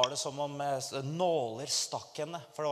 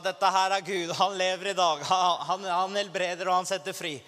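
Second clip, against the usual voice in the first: proclaiming call; 4 semitones higher, 5 dB louder than usual. Retold or imitated. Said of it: "jeg ropte en to minutter".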